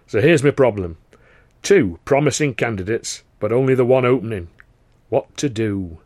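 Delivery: lightly voiced, self-assured theatre boss; a hint of a pompous governor thinking aloud; theatre governor Carno.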